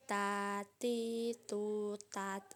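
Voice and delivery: "Ta, ti, tu, tat" with a little air released on each t; drawn-out "Ta, ti, tu", ending on a released t in "tat"; ta with breath flow. Shown as a demonstration. Teacher shows learners the letter ta, "Ta, ti, tu, tat" drawn out with airflow. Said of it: "ada udara yang mengalir".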